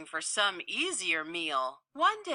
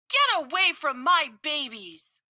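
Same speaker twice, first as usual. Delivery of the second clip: higher, louder squirrel yell; a mother squirrel yelling at a bear; fierce scolding; 6 semitones higher, 4 dB louder than usual. Acted. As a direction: drive the bear out. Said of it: "sprang into action".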